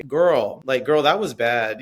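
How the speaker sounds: lightly sassy, playful inflection; sassy girl talk. Shown as a demonstration. Teacher showing how she talks to students, playful sass. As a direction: give it a camp, teasing lilt. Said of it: "a lot of vocal inflection in my voice".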